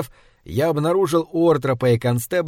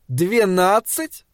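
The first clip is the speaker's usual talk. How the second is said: slow, rising disbelief, higher pitch; incredulous echo; 6 semitones higher, much slower than usual. A narrator's reading. Kearns hears the boy's age, incredulous and rising. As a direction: draw out Двенадцать into an astonished question.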